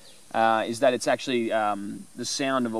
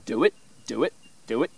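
water droplet clicks. Shown as a demonstration. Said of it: "it's like I'm saying".

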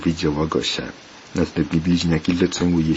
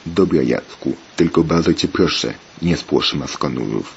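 ordinary delivery

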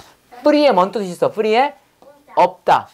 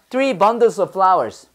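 slow model reading; much slower than usual. Shown as a demonstration. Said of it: "자, 해봐".

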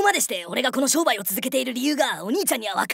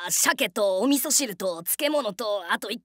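low, drawn-out listing; halting, pitched-down pondering; slow recollection; 3 semitones lower, 3 dB quieter, slower than usual. Acted. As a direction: trail through the items while searching memory. Trying to recall breakfast.

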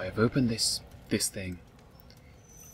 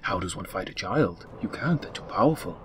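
mock story narration.

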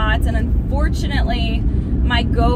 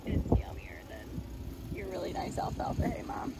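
voicing the horse; 18 dB quieter than usual. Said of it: "Zeke's like".

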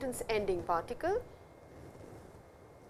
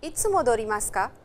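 two voices on a radio drill, loud and clear; recorded dialogue; 5 dB louder than usual. Acted. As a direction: play the textbook dialogue like a recording.

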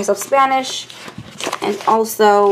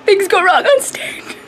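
high-pitched mock weeping; badly upset, put on for the camera; acted crying; 7 semitones higher than usual. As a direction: pretend tearful breakdown. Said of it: "That is me acting".

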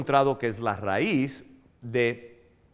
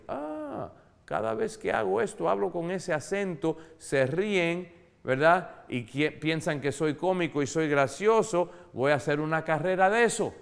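put-on imagined child; 5 semitones higher than usual. Child's imagined upbeat reaction.

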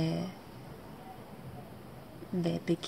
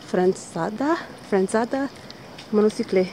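bright, louder eager listing; excited; 4 semitones higher, 5 dB louder than usual. Real, not acted. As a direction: excitedly share a hobby. Excited about hobbies, louder.

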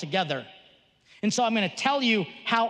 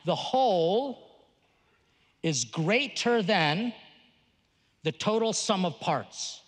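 slow and deliberate, for taking notes; slow dictation. Shown as a demonstration. Pastor dictating a key idea to the congregation, slowly. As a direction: spell it out so they can write it. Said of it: "now you wanna write this down".

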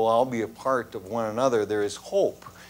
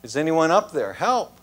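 raised, higher calls for help; mock yell for help; 3 semitones higher, 3 dB louder than usual. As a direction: call out for help up the cliff. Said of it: "And so he began to yell".

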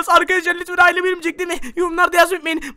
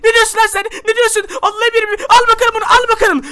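higher, raised fighting voice; acted angry challenge; 4 semitones higher, 4 dB louder than usual. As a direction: lash out at the villain. Hero fights the villain.

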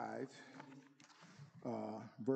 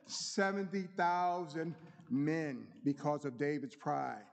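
raised, emphatic Bible reading; scripture reading; 2 semitones higher than usual. Acted. Preacher reading David's story to the congregation, declamatory scripture reading. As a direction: read it out to the congregation with weight on key words.

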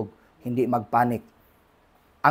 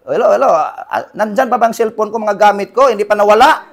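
anxious caller; 5 semitones higher, 5 dB louder, faster than usual. Retold or imitated. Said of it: "lagi kang tumatawag".

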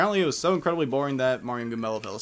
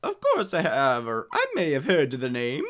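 lightly put-on Mario; Mario character voice. Mario replying to the mayor about Hooktail, lightly voiced. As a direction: play Mario answering the mayor.

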